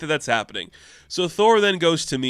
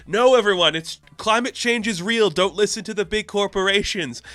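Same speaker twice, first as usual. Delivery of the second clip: high, mock-alarmed villain preaching; Loki; 7 semitones higher than usual. Loki warning everyone about corporations, hammed-up high-pitched pleading. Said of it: "this bad guy who's like".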